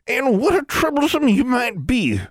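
put-on high, quavering old witch; ancient crone voice. A narrator's reading. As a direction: croon it like a knowing crone. Oldest crone speaks.

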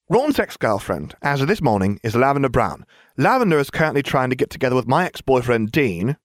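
a hint of a brisk presenter; lightly voiced Ginevra briefing. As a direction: lay out the gossip like a report. Ginevra presenting relationship web.

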